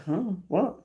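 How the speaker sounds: ordinary talk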